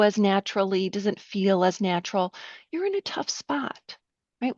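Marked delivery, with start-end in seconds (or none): 2.7-4.0 "You're in a tough spot", the voice going down on "spot"; falling statement. Shown as a demonstration. Trainer showing a reflection as a statement again, voice down. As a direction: state it, no rise at the end. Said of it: "With my voice down".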